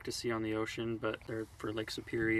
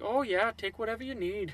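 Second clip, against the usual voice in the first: polite cashier voice; 11 semitones higher, 4 dB louder than usual. Retold or imitated. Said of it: "And she's like".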